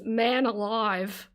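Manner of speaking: "man alive" drawn out very slowly; slow showcase. Shown as a demonstration. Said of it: "the most Australian saying I would use is".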